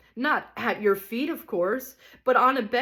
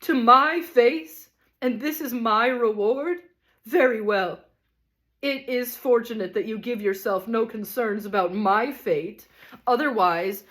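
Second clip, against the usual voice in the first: higher, loud theatrical tirade; a ham tragedian raging at his wife; stormed; 4 semitones higher, 4 dB louder than usual. Acted. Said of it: "he stormed".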